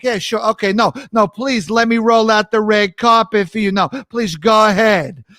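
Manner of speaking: mock-gracious with a bite; sassy New York courtesy; sarcastic. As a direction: insist politely, dripping sarcasm. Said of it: "there's always this bite of sarcasm".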